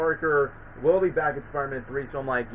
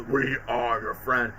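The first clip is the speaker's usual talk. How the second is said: imitating Venom; 4 semitones lower, 3 dB quieter, slower than usual. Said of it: "And then Venom goes".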